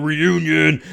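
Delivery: slow, drawn-out mock chant; imitating robed clones. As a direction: drag it out like a wandering clone. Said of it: "like, going, 'Reunion'".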